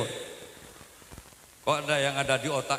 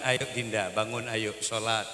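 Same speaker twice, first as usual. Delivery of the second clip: gentle wake-up; 6 semitones lower, 4 dB quieter than usual. Retold or imitated.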